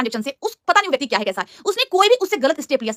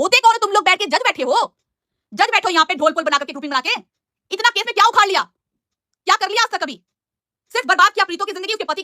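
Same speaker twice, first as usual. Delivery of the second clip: higher-pitched, heated rhetorical questions; indignant challenge; 5 semitones higher than usual. Real, not acted. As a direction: take them to task, indignant. Confronts trolls who sit in judgement. (गुस्से भरी, ऊँची आवाज़ में फटकार)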